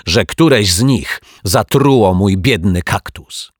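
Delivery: put-on detective shouting in defence of the children. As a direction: shout it out, refusing to believe. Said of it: "krzyknął".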